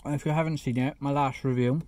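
talking through a mouthful of burger; words muffled round a bite; mouth full. Real, not acted. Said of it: "sorry, I'm talking with my mouth full now".

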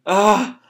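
high little wail; mild mock cry. Boy on his knees among dead maids, mild mock cry. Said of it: "and starts crying".

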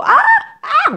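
very high, short mock wails; imitated baby cry. Shown as a demonstration. Showing how a baby cries, high sudden wails. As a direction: cry out like a newborn, high-pitched. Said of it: "우느라고".

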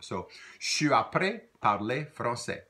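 je suis après parler français said clearly; teacher models après, shown as "aprè"; model phrase. Shown as a demonstration. Teacher models progressive tense for learners. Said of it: "Try that".

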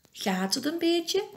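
high, gentle little elf voice; high-pitched, caring question; concerned. A narrator's reading. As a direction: ask it with tender worry. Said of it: "vraagt Elfje Fien bezorgd".

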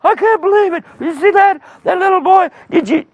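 high-pitched, frantic disbelief; hammed-up panic, voice way up; panicked crowd. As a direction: exclaim in alarm, building to a shout. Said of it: "the people going".

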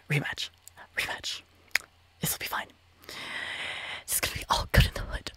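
real whisper, very soft; self-soothing whisper. Real, not acted. Gamer telling themselves it will be fine after losing, whispering. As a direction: whisper reassurance to yourself.

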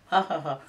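imitating a mocking laugh. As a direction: laugh at her like the doctor did. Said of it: "He laughed".

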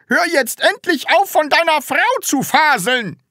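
high, loud shout of exasperation; angry yell. Acted. Teacher fed up with pupil's talk, shouting. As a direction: scream at the pupil to stop. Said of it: "schrie Herr Groll".

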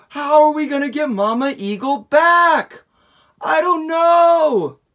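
high, loud, fretful voices; worried animals. Acted. Forest animals worrying about Mama Eagle, high and loud. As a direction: fret about getting Mama back.

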